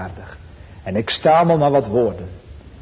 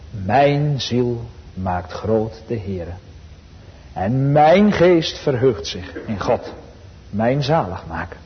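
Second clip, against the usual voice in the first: solemn scripture reading; slower than usual. Acted. Quotes Maria's song of praise.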